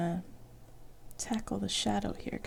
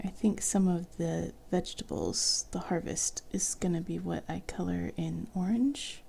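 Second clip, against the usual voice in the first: whispering. Real, not acted. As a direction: whisper it gently. Soft whispering while drawing.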